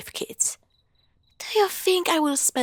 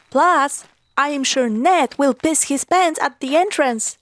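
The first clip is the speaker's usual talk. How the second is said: louder teasing call to the guys; 3 semitones higher, 5 dB louder than usual. Acted. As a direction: call out to the whole group, mocking. Calling out to the group.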